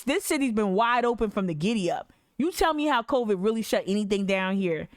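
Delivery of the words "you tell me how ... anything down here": ordinary talk, nothing marked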